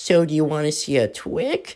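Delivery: put-on soft baby talk like a toddler. Retelling what a goth girl said, putting on a baby voice. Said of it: "the goth girl starts talking in a baby voice".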